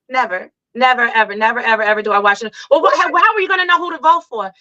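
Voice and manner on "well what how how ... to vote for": incredulous critic. Retold or imitated. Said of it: "somebody was like".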